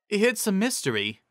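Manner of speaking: high, mysterious; high teacher voice. A narrator's reading. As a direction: say it high and coy. Cheerilee voiced.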